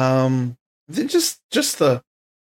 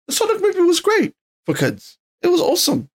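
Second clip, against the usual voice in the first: excited; 14 semitones higher than usual. Real, not acted. Enthusing about Sonic movie.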